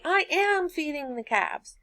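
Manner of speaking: high-pitched insistence on AM; stress on AM. Acted. Student answering mom about the calves, stress on AM. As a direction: raise the pitch and lean on "am". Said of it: "look back at her and say".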